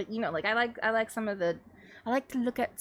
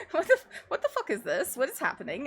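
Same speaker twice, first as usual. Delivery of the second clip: higher, laughing through the question; laughing husband quote; 4 semitones higher, faster than usual. Retold or imitated. Streamer quoting the confused husband, laughing. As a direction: giggle while playing the baffled husband.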